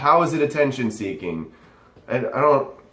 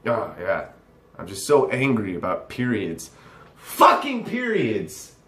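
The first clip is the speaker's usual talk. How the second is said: mock angry rant. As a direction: sarcastically pretend to be furious over something trivial. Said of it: "will be angered and bothered by this".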